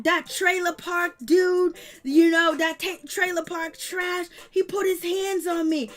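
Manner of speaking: mock whiny yell. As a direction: ham up the wounded victim. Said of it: "he is yelling at Ashley".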